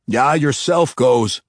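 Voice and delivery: a hint of a dwarven brogue, slow; lightly voiced dwarf. Dwarf jailer left behind, lightly voiced dwarven grumble. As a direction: wave the demon on with a dwarf's drawl. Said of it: "said the dwarf, shaking his head".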